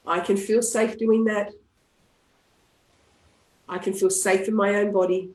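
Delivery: ground them with each phrase; calm closing affirmations. Shown as a demonstration.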